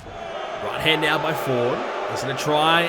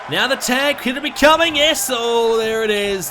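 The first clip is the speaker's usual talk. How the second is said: wrestling commentator; 4 semitones higher than usual. Real, not acted. Tag builds toward comeback.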